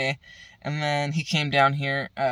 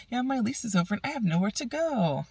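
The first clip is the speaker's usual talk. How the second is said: mock whiny plea; 9 semitones higher than usual. Mocking homeless woman's plea.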